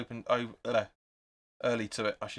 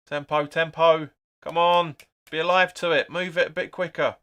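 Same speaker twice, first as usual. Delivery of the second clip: urging on loudly; 3 semitones higher, 5 dB louder than usual. Real, not acted. Urging team on at screen.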